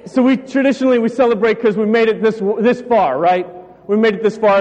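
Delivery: winded, catching breath between phrases. Real, not acted. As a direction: still a bit breathless. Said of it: "I'm catching my breath still".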